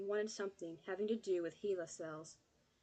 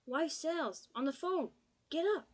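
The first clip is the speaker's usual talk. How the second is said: high, louder urging; insist, getting higher; urgent calling; 8 semitones higher, 6 dB louder than usual. Acted. Kid waking Pop, high louder urgent call.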